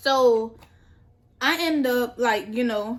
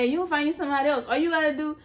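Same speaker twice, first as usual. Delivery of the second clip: quick, higher-pitched pep talk; imitated self-hype, fast and higher; bucking herself up; 4 semitones higher, much faster than usual. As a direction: rattle off encouragement to yourself. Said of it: "trying to buck myself up".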